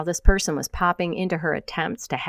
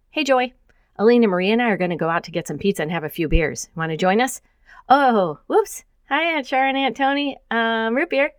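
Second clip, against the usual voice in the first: a hint of a bright young daughter, quick and higher; lightly voiced daughter; 5 semitones higher than usual. Daughter inviting Joy out for pizza, lightly voiced and quick. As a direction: pop your head in, then catch yourself. Randy pops in, sheepish.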